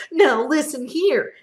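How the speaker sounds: loud, angry retort; Onceler yelling. Acted. Onceler yelling back at the Lorax, loud and angry. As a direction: shout him down in fury. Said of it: "I yelled at the Lorax".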